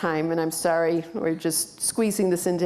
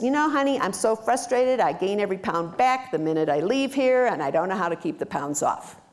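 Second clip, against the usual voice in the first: a touch of a whiny frustrated client, pitched up; 2 semitones higher than usual. Retold or imitated. Client tells the staff she's frustrated, mildly whiny.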